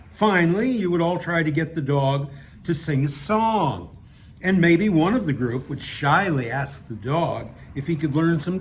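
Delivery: measured, emphatic read-aloud narration; story narration. Acted. Reading a satirical piece to an audience, measured narration. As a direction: read it out with deliberate phrasing.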